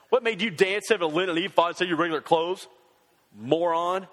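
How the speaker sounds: sarcastic. Shown as a demonstration. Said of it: "don't say it sarcastic".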